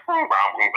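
little bong noises, as a device would sound them; imitated device tones. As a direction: mimic electronic colour tones. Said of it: "send a sound to his ear".

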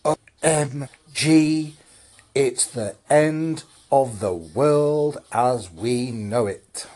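slow, drawn-out fight-night announcer hype; boxing ring announcer. Acted. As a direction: announce it like a brash boxing promoter. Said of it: "why am I sounding like some ring announcer at boxing?".

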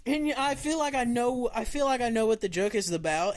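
laughing. Real, not acted. Laughing while talking.

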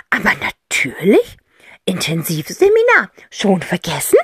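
a hint of a teasing aunt; lightly voiced aunt. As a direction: tease them gently. Aunt answers Cassie. (Tante Rotz, leicht neckend)

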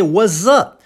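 "what's up" as "wazzup", no T. Shown as a demonstration. Teacher pointing out S transformed into Z. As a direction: turn the middle of "what's up" into a buzzing Z. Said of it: "o S transformado em Z".

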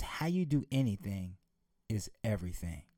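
a preacher quoting a maxim, low and weighty on "everything."; quoted maxim. Acted. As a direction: lay the maxim down and let "everything." sink. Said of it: "scholars just simply state a phrase".

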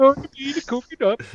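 high, quick mock Swedish chef accent. Game master teasing the player with a mock Swedish chef accent. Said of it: "in the Swedish chef voice".

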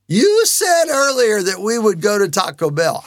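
mildly incredulous kid imitation; disbelieving kids. Kids challenge dad over lunch, mock disbelief. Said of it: "looked at one another in disbelief".

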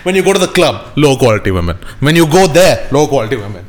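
hammed-up repetitive sermon; mock alpha lecturing. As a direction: drum in the refrain like a parody guru. Plays alpha guru lecturing his friend.

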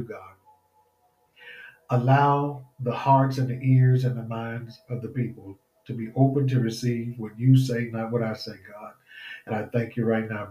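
earnest preacher's prayer. Acted. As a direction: pray fervently over the people. Leads a prayer.

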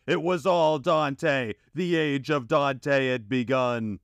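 dramatic epic announcement. A narrator's reading. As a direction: announce it like a movie trailer. Dramatic reveal of the new era.

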